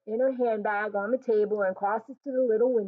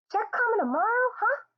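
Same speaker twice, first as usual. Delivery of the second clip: put-on eager boy; 5 dB louder than usual. A narrator's reading. Boy eager about the check.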